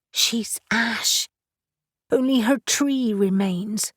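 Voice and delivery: almost whispering; hushed whisper. Acted. Grieving woman breaks sad news.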